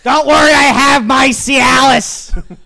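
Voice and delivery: put-on slow shouted old-timer; loud mock old man. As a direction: slowly announce it like a proud old man.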